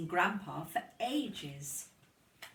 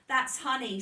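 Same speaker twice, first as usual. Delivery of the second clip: smiling Lucy; 6 semitones higher, 7 dB louder than usual. A narrator's reading. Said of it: "said Lucy, smiling".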